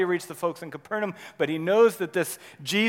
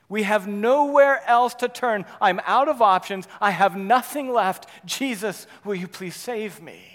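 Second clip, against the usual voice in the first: loud plea; 3 semitones higher, 6 dB louder than usual. Acted. Climax plea.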